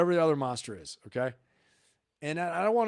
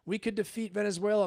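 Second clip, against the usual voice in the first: high, whiny mock of an online critic; 8 semitones higher than usual. Mimicking a commenter who called him a warmonger, high and whiny. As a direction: pitch it up to mimic the accuser. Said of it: "chased me down to my channel and wrote".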